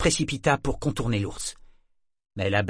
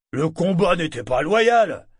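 loud, high, slow protest; indignant exclamation; 8 semitones higher, 7 dB louder than usual. A narrator's reading. Un parieur furieux proteste, exclamation forte et lente. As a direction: drag out the outrage. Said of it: "s'exclama un autre".

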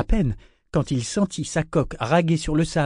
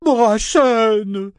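high, loud impatient yell; irritated shout; 9 semitones higher, 7 dB louder than usual. A narrator's reading. Ship calling the idle foreman, irritated shout. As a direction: yell the name in exasperation. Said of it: "s'écria-t-il irrité".

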